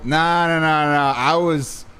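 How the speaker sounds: lightly acted war-story one-upper; mock one-upping. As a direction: top the last story, pitched a bit up. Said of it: "one-upping people".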